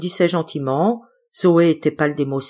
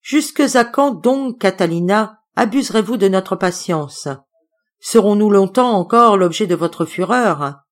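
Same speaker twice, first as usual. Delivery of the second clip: mild orator's declamation, Cicero style; a boy declaiming Cicero in his best chest voice; 2 semitones higher than usual. A narrator's reading. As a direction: recite like a schoolboy at the tribune. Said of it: "de sa plus belle voix de poitrine".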